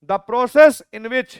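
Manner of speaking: slow, word by word dictation with long pauses; teacher dictating a definition; dictation pace. Shown as a demonstration. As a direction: dictate it for notes. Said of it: "dictating a definition slowly".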